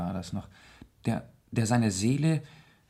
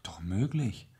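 hushed agreement with the troubled man; whispered. Acted. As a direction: answer in a conspiratorial whisper. Hushed reply to the confidence.

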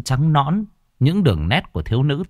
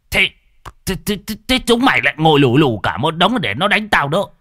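higher, indignant sputtering; old man scolding the youths for not helping; outraged; 6 semitones higher than usual. Acted. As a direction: stammer out the outrage.

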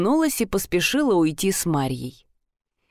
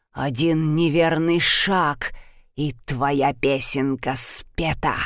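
menacing giantess; 4 semitones lower, slower than usual. Acted. Giantess threatens the vampire.

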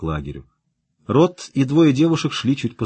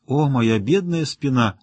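slow, drawn-out moan; hammed-up complaint about a sore back; aching complaint; 3 semitones higher, slower than usual. Jimmy moans to his friends about his back, slow mock suffering.

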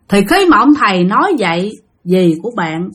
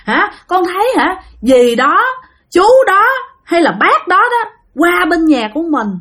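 pitiful ghost; 8 semitones higher than usual. Retold or imitated. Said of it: "nói rằng á".

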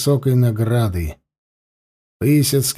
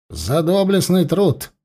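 solemn proclamation; 4 semitones higher than usual. Acted. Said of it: "Торжественно и громко повторил сотник".

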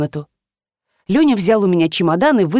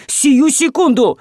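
stern command; 5 semitones higher, slower than usual. A narrator's reading. Master commands assistant to pay immediately. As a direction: hammer the order home.

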